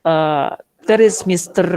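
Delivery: slow English with a heavy Arab accent. Shown as a demonstration. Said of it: "ketika mereka berbicara bahasa Inggris". (bahasa Inggris logat Arab)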